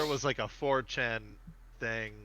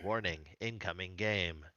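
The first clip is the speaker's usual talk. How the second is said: lower, softer system warning voice; ominous announcer voice; 6 semitones lower, 7 dB quieter than usual. Retold or imitated. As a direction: intone it like a computer announcement. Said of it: "and the voice is like".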